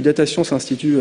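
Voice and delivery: "Data Science Institute" said the French way, French vowels and even stress; French-accented English. Real, not acted. Speaker apologizing to the audience, English name in a French accent. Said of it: "excusez-moi pour mon accent en anglais".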